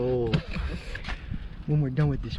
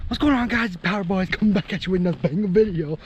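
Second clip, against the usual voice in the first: loud energetic channel intro; hype vlogger intro; 2 semitones higher, 4 dB louder than usual. Acted. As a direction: hype up the viewers. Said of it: "Every time".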